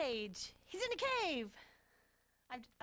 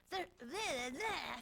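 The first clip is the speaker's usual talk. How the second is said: Captain Kirk; much slower than usual. Retold or imitated. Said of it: "I was doing Captain Kirk".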